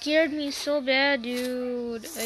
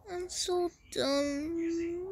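mock sulking; 3 semitones higher, 5 dB quieter, much slower than usual. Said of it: "You can see I'm crying".

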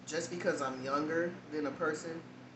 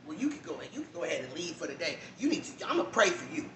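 mock attitude. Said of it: "got an automatic attitude with me".

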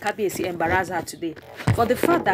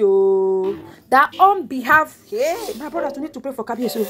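loud rallying call; 3 semitones higher, 4 dB louder than usual. Real, not acted. Vlogger urgently calling her brothers to pray.

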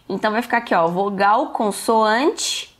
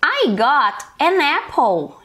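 slow and clear, a little higher; slow model sentence; 4 semitones higher, slower than usual. Shown as a demonstration. Teacher modelling an English example for students, slowly. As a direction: read it out word by word. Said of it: "Let's see the examples".

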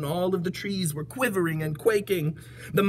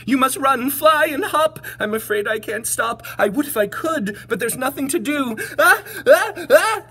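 loud, high, mounting alarm; urgent warning; 9 semitones higher, 6 dB louder than usual. Acted. Elephant can't stop the sneeze, urgent rising warning. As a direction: build helplessly toward a sneeze.

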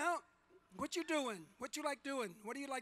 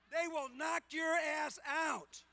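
shouting; 4 semitones higher, slower than usual. Real, not acted. Joking loudly about heavy cookies.

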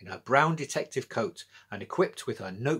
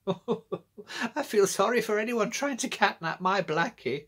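much higher, slow and laughing through it; laughing old lady; 10 semitones higher, slower than usual. A narrator's reading. Old lady laughing to Georgia about her fierce cat. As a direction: chuckle it out like a proud old granny. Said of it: "The blue-haired lady laughed".

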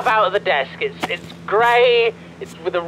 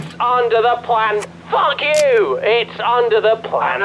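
raised-pitch cursing, fed up; exasperated insistence; 3 semitones higher than usual. Acted. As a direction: hammer it home in angry frustration. Exasperated, repeating where it is.

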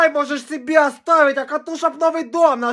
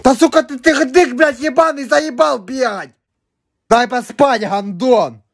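rudely awakened. Acted. Woken by running cat.

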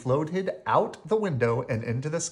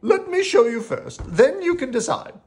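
nervous; 11 semitones higher, 7 dB louder than usual. Acted. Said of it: "Rocky said nervously".

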